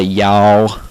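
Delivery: "y'all" drawn out with a wide fronted "ya-" vowel; exaggerated mock-Southern drawl on "y'all"; wrong stereotyped y'all. Shown as a demonstration. Southerner showing viewers the fake impersonation, exaggerated drawn-out "y'all". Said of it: "We don't say that at all".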